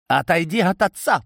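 high, loud frantic cry. A narrator's reading. Daughter screaming at the man near her father, frantic. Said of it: "вскрикнула женщина".

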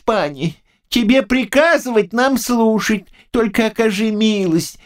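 put-on high, humble old man's coaxing; pleading old man. A narrator's reading. Old man humbly begs and offers the knight a drink. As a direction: coax him to drink, bowing.

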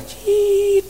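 very high thin squeak mimicking a cricket; a mimicked high cricket chirp in the middle of a sermon. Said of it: "เสียงจิ้งหรีดมันร้องดัง".

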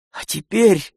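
bright, high joyful opening; cheerful. A narrator's reading. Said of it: "весело заключил он".

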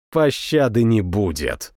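usual speaking voice

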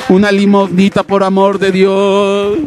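slow monotone begging drone; mock beggar. Preacher mocking a believer who still begs, slow droning plea. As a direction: drag it out like a beggar's chant.

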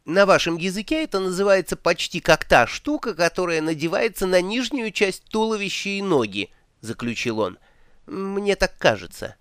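высоко, неуверенно подбирая слово; растерянный турист ищет слово; высокий голос туриста. Acted. Два Цветок подбирает слово. (неуверенный высокий голос)

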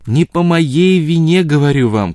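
high, loud, drawn-out cry of anger; furious wail; spiteful outcry. A narrator's reading. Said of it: "крикнула она в порыве злобы".

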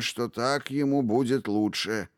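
calm, firm statement. Acted. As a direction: say it with firm certainty. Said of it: "твёрдо заявил старый волшебник".

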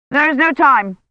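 a hint of a brusque churchman; curt envoy. A narrator's reading. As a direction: dismiss her firmly. Envoy's voice in story.

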